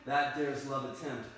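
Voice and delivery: lightly declaimed love verse; ardent Romeo. Acted. Romeo explains how love carried him over walls, mildly declamatory. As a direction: proclaim love with swelling emphasis.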